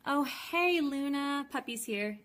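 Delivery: high, sweet pet talk; cooing at the dog. Real, not acted. Greeting her puppy Luna as it wanders in, in a high cooing voice. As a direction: coo a greeting to your puppy.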